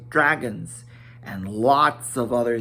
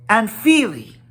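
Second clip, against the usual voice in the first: Fili's greeting; 8 semitones higher, 6 dB louder than usual. A narrator's reading. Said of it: "added the other".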